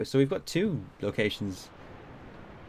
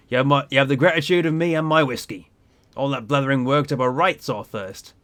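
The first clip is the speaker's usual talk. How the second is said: lightly voiced seafaring captain; salty ship captain; 4 dB louder than usual. Captain answers a stranger in the bar, lightly salty. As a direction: play a proud old sea dog, a little put on.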